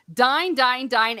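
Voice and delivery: loud, high, repeated "dine"; "dine" rhyming with fine, three times over; "dine" as in dining. Shown as a demonstration. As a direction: hammer out "dine" with a long i. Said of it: "as in fine dining".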